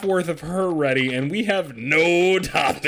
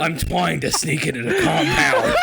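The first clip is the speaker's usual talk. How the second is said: Solid Snake uwu voice; 4 semitones higher than usual. Pretend. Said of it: "do the solid Snake voice, but replace the R's and L's with W's".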